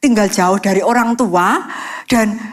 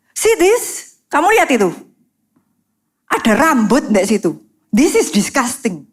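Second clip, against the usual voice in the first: mild mock snap over a hair in the sink; hammed-up roommate scolding. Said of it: "Dan bentak gitu".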